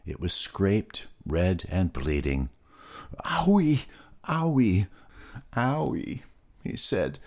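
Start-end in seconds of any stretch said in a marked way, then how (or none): 3.2-6.2 high whimpering owie with each fall; high, mock pained yelps; hurt little pig. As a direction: play a small pig wincing over a scraped knee. Peter holds scraped bleeding knee.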